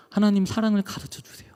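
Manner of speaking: hushed, breathy plea to God; whispered prayer. Retold or imitated. Father praying to God to learn love, whispered. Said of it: "그래서 하나님 기도한 게".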